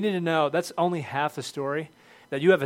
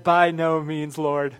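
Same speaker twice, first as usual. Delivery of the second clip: Peter's loud refusal; 6 dB louder, slower than usual. Retold or imitated. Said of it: "But Peter said".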